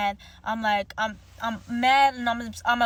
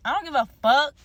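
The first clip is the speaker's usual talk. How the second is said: a real, louder blurt of defiance; loud defiant outburst; 3 semitones higher, 6 dB louder than usual. Real, not acted. Shrugging off her brother's texts, loud defiant blurt. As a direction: spit it out, done caring.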